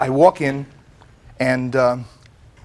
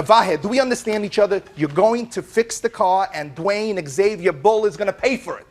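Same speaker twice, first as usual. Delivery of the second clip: higher-pitched, mildly insistent retelling; acted insistence; 5 semitones higher than usual. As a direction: re-enact pinning someone down on a deal. Re-enacts insistent phone call to mechanic.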